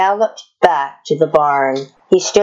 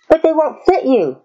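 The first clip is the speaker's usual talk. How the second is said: put-on higher girl's voice, gently objecting; Cowgirl Kate's voice; 12 semitones higher than usual. A narrator's reading. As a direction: let Kate point it out kindly. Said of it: "she replied".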